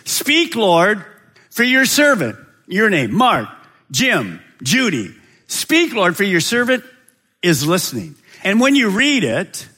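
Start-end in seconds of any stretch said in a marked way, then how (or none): 0.1-2.4 prayer demo. Shown as a demonstration. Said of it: "say this". 5.5-8.2 prayer demo. Shown as a demonstration. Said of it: "say this".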